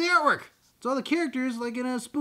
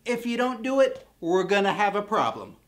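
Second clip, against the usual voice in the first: mock tough guy; 2 semitones higher, 4 dB louder than usual. Mock challenge to viewer.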